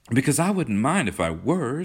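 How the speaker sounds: put-on high, insistent girlish protest; persisting. A narrator's reading. Kismine argues on to John, girlishly insistent. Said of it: "she persisted".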